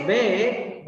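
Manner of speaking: "Way" wrongly begun like "vay"; "Way" without rounded lips. Shown as a demonstration. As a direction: say "Way" with a V in place of W. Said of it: "the word is not properly read".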